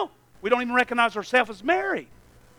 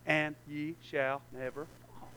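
soft, slow scripture quote; 8 semitones lower, 11 dB quieter, slower than usual. Shown as a demonstration. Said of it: "quoting the verse softly".

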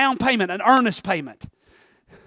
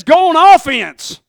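loud, slow battle cry; rally himself to attack; fired-up competitive voice; 6 semitones higher, 11 dB louder, much slower than usual. Acted. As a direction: competitive side urging him to attack. Competitive side urging attack.

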